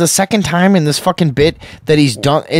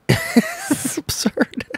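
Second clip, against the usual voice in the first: high, slow squeal of disbelief; squeaky laughing disbelief; 6 dB quieter, much slower than usual. Real, not acted. Host squealing in disbelief at the news.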